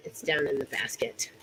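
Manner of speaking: breathy whisper to herself. Real, not acted. Whispering to herself while rummaging in the basket. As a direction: mutter it under the breath, almost voiceless. Muttering to self while searching.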